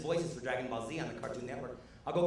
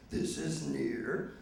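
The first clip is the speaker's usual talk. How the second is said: very slow, high muppet voice; mocking Grover; 13 semitones higher, much slower than usual. The comic mocking the TV show for his kids, very slow high muppet voice. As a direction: drag it out, jump high on far. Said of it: "I'm mocking the T V".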